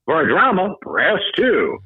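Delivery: booming movie phone announcer; Mister Movie Phone. Acted. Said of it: "do you know who Mister Movie Phone is".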